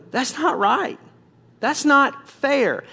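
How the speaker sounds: indignant complaint. Acted. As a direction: complain about how unfair it is. Acting out a person's indignant complaint.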